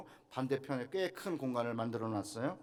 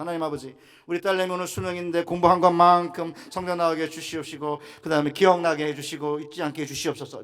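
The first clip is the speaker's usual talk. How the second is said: retold family prayer; 3 semitones higher, 12 dB louder than usual. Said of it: "손 얹고 기도했어요".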